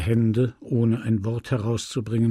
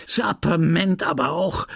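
mild exclamation; 5 semitones higher than usual. Acted. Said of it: "rief der Geistliche".

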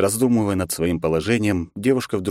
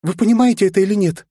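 higher, louder urgent shout; raised voice; 12 semitones higher, 4 dB louder than usual. Acted. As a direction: raise the voice in alarm. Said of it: "Лариса повысила голос".

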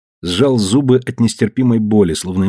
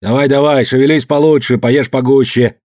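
encouraging; 4 semitones higher, 3 dB louder than usual. Acted. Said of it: "подбадривал".

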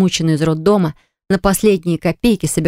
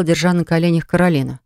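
plain reading voice

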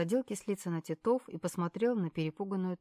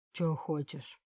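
rough voice; 3 semitones lower, slower than usual. A narrator's reading. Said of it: "грубым голосом спросил пленник".

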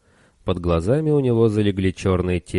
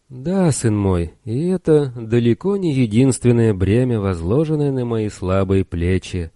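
humble chaplain; 4 semitones higher than usual. Acted. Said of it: "смиренно склонил голову".

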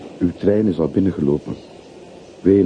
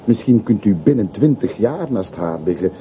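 urgent plea; 5 semitones higher than usual. Acted. Porter urgently begging him to stay.

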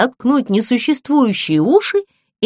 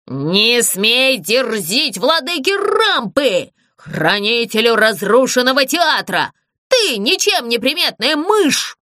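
offended ghost shriek; slower than usual. Acted. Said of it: "Обиженно завизжал призрак".

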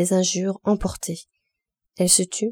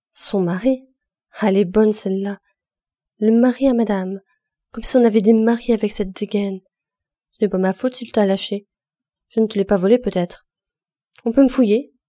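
sneering mockery; 5 dB louder than usual. Virginie mocks Gervaise's missing husband.

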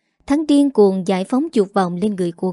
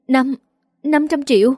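stammered, pitched higher in shock; shocked disbelief; 5 semitones higher than usual. Acted. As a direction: stumble on the number, disbelieving. Daughter hears shocking sum. (sững sờ, lắp bắp, giọng cao vọt lên)

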